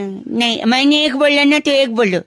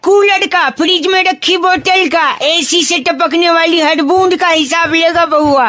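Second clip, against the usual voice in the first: raised, proud mock-menacing proclamation; grandiose declaration; 3 semitones higher than usual. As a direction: announce it like a film villain.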